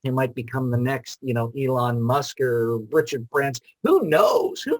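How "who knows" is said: squeaky high who knows. Acted. Playful rhetorical echo.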